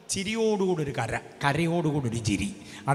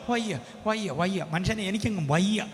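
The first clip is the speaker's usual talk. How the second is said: softer, drained moaning of വയ്യ; mock weary complaint; 2 semitones higher, 5 dB quieter than usual. Preacher mimicking an exhausted grumbler, mock weary moan. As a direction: sigh it out like someone fed up.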